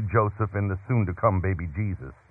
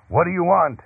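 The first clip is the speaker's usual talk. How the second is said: high, raised innkeeper's demand; menacing; 9 semitones higher, 4 dB louder than usual. A narrator's reading. Boy playing innkeeper confronts Joseph at the door, menacing. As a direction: demand it menacingly, pitched well up. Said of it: "He flung the door open and asked menacingly".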